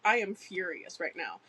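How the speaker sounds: deadpan monotone, no emotion. Retold or imitated. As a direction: say it totally flat. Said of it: "in his monotone voice".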